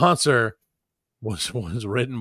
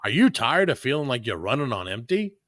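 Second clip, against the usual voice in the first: ad voice. Pretend. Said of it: "written in the voice. I'm gonna do it".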